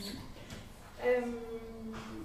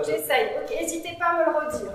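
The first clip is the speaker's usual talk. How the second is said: raised voice so the back rows can hear; speaking up louder; 4 semitones higher, 4 dB louder than usual. Real, not acted. Speaker told to speak louder, now projects more loudly. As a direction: project louder after a listener asks. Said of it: "plus fort".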